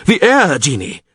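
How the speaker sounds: high exclamation of recognition; name it in astonishment; excited shout. A narrator's reading. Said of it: "shouted Crep".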